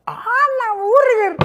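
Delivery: mock squeal. Mocking exclamation after quote.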